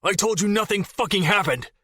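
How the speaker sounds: high, forced angry retort; bit out. Acted. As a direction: spit the words back at her. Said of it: "Jason bit out".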